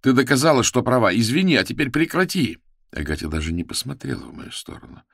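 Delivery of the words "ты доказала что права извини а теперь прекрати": much higher, louder, begging; frantic plea. A narrator's reading. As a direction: beg her to stop, panicking.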